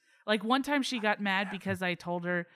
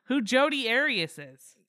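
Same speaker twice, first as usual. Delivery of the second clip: louder, higher retold incredulous outburst; exasperated disbelief; 8 semitones higher, 9 dB louder, slower than usual. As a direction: act out being stunned at their ignorance, drawing it out. Retelling own disbelief at others' ignorance.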